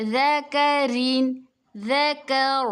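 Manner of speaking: ذکرن with a thin ر, then ذکر stopped with a heavy ر. Shown as a demonstration. Teacher contrasting ذکرن and ذکر for the students. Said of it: "دیکھیں".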